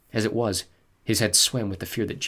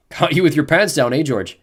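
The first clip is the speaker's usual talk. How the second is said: snickering taunt; 5 semitones higher, 8 dB louder than usual. A narrator's reading. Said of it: "someone snicker".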